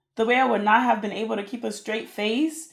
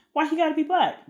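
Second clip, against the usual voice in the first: high-pitched mock protest; put-on higher-pitched objection; mock indignation; 8 semitones higher than usual. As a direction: lightly protest in a raised voice. Retold own indignant reaction to clip.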